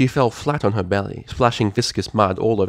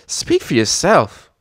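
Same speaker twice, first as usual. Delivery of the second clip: grunting; 7 semitones higher, 5 dB louder, slower than usual. Acted. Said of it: "Applebloom could be heard grunting".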